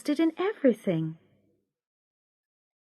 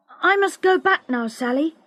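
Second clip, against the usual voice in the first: worried; 6 semitones higher, 3 dB louder than usual. Acted. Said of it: "he said suddenly".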